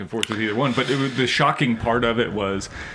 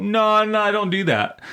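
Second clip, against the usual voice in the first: flat refusal; 9 semitones higher than usual. Retold or imitated. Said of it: "she was like".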